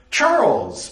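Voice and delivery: greeting a dear friend; happy call. Acted. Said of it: "Blythe called out happily".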